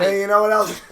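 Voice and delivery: high, loud Italian-American heckle; hammed-up Italian banter; mock Italian accent. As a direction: press on as a cartoon Italian. Continuing mock Italian bit.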